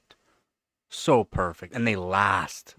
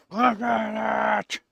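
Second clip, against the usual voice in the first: slow, high and louder; high pet voice; 10 semitones higher, 4 dB louder, much slower than usual. Real, not acted. To the smiling cat, slow high baby talk.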